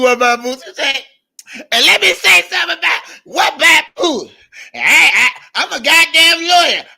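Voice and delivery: high, loud mock rant of an angry woman. Imitating the ranting woman for the viewers, high and loud. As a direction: shriek it like the furious lady.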